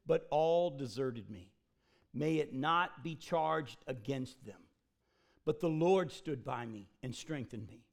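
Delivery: solemn scripture reading. Acted. Reading Paul's letter aloud.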